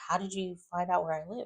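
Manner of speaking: startled question. Retold or imitated. Eva startled by Kat.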